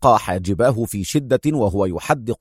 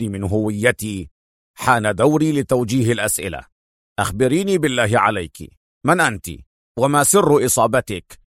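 lightly voiced inspector. A policeman questioning the major, lightly voiced and firm.

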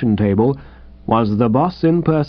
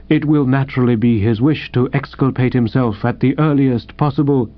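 Jeeves valet voice; 2 semitones lower than usual. Acted.

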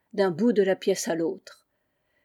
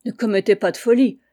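urgent warning; 7 dB louder than usual. Acted. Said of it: "me dit-il".

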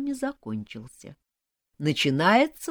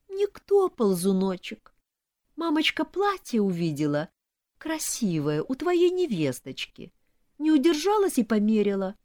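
high-pitched, plaintive self-pity; tearful whimper; 6 semitones higher than usual. A narrator's reading. Mother to her son, plaintive and tearful. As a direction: play the injured mother, whimpering. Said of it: "всхлипывала мать".

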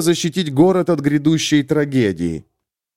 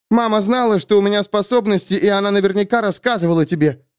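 put-on higher, urgent young heroine; young woman, urgent; 7 semitones higher, faster than usual. A narrator's reading. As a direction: press it, tense and scared. Sulin voiced higher.

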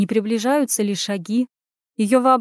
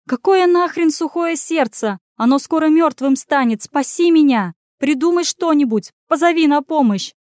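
much higher and louder, frantic; panicked plea; 6 semitones higher, 5 dB louder than usual. Acted. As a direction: beg desperately for rescue. Trapped Anya panics.

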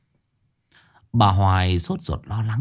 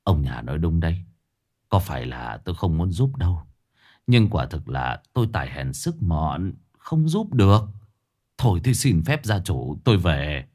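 put-on old master's voice; 4 semitones lower than usual. Master declines, low voice.

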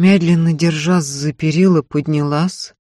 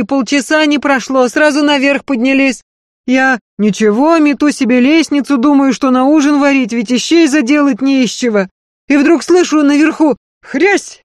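higher, louder pleading maid; earnest servant woman begging, high and loud; Marfa's pleading voice; 10 semitones higher, 8 dB louder than usual. Acted. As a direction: beg her mistress not to leave, pressing hard. Marfa tells the story breathlessly.

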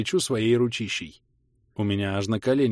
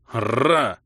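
indignant growl; 5 dB louder than usual. A narrator's reading. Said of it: "В рыке почувствовалось возмущение".

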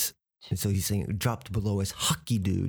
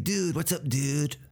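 put-on higher-pitched teen greeting; American teenager; 5 semitones higher than usual. Shown as a demonstration. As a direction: imitate a teenager hailing a buddy. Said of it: "especially teenagers use dude".

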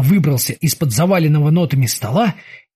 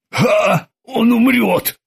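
scornful higher snap; snapping; 6 semitones higher, much slower than usual. Acted. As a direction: snap back mockingly. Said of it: "огрызался Крюгер".

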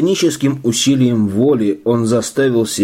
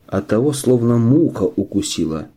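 plain reading voice

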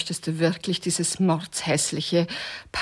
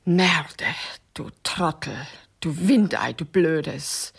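zischendes Flüstern; 2 semitones lower, slower than usual. Acted. Fluchen im Flüsterton.

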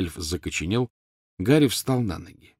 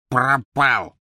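loud, higher cry of the house-elf; elf's wail; 4 semitones higher, 5 dB louder than usual. A narrator's reading. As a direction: blurt the bad news like a wail. Эльф выкрикивает страшную новость. (громкий высокий крик эльфа)

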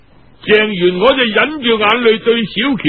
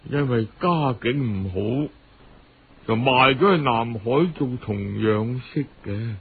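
put-on sad orphan girl; 8 semitones lower, 4 dB quieter than usual. Girl tells of mother being sold.

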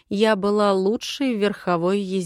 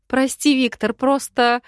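laughing; 5 semitones higher, 5 dB louder than usual. Acted. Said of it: "Хохотала, не в силах остановиться".

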